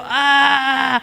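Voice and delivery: half-voiced yell of exasperation; mock frustrated yell. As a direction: let out a contained, drawn-out mock scream. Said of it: "tengo ganas de gritar".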